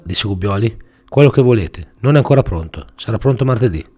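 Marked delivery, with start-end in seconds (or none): 1.1-3.9 smug mechanic. Acted.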